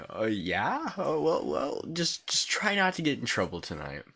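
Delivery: a hint of a casual friend shrugging it off; mildly imitating the friend's easy warning. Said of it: "she was like".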